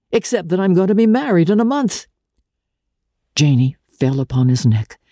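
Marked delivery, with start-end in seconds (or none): 0.1-2.1 giddy. A narrator's reading. Archer's giddy announcement.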